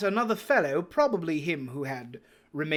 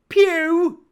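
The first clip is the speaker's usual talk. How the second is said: high, loud call from the window; 14 semitones higher, 12 dB louder than usual. Acted. Pirate at the window hailing the blind beggar, loud call. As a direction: call down to the road. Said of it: "he cried".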